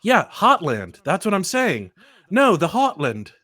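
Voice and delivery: insistent, drawn-out correction; mock exasperation. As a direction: correct them as if it were obvious. Acted argument over dropped R.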